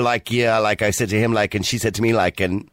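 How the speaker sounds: lightly mimicked Americanised youngsters; mock American accent. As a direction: parody teen American accent filler talk. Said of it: "becoming very Americanized because of YouTube".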